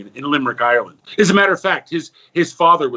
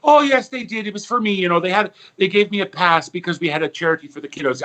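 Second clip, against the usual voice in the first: put-on sweet old nun; 3 semitones higher than usual. Nun explains the pass.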